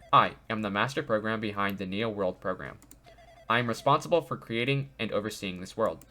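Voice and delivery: lightly robotic AI voice. Acted. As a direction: read it like a calm robot. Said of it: "it's like a robotic voice".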